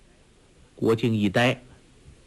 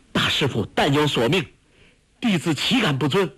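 higher-pitched eager joy; overjoyed; 5 semitones higher, faster than usual. A narrator's reading. Delighted disciple pledges to obey his master, overjoyed. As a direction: answer with a touch of delight. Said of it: "郭靖大喜说".

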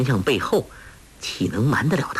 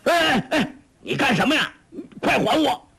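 panicked high cries, much higher; alarmed; 13 semitones higher, faster than usual. A narrator's reading. Villain panics as she holds pages to flame, alarmed high cries. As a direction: blurt it out in sudden alarm. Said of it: "欧阳锋大骇，忙说".

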